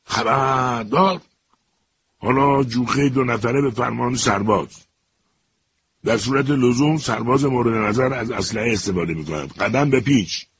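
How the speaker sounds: shouted command. Acted. Cholin suddenly shouting orders at the prisoner, mock drill command. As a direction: call the squad to attention like a drill sergeant. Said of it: "فریاد کشید".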